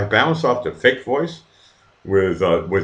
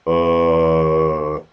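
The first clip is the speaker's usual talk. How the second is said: long low monotone "uhhh"; mock drawn-out hesitation noise; imitated "uh"; 6 semitones lower than usual. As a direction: hold a dull, droning "uh" in imitation. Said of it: "and they're going".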